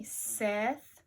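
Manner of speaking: one word at a time, long gaps; slow choral reading. Shown as a demonstration. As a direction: lead the class word by word. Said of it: "Say it with me".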